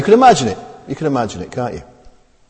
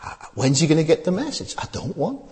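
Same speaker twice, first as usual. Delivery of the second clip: weary dismissal; 10 dB quieter than usual. Retold or imitated. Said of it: "They're saying".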